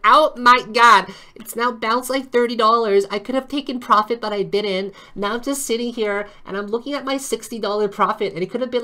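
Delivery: hammed-up regret over lost profit; mock panic. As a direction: play the regretful amateur trader. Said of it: "panic and be like".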